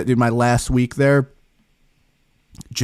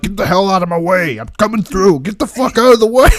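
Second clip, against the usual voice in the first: imitating boss yelling; 5 semitones higher than usual. Boss barging past the worker, mock angry yell. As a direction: bark it like a pushy boss barging through. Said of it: "he'd be like".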